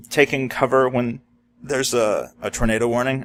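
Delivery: words broken by hiccups; hiccuping. Real, not acted. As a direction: speak through the hiccups. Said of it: "I'm sorry, I'm hiccuping".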